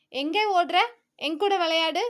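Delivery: threatening. Acted. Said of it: "மிரட்ட".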